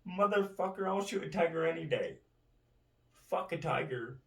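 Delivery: loud, high-pitched incredulous rant; indignant outburst. Real, not acted. Ranter scoffing at jail for shooting tigers, indignant. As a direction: raise the voice in indignation.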